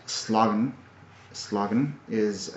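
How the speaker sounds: slagen said as SLAH-gen; Norwegian word. Shown as a demonstration. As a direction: slagen with an open ah. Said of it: "in fact".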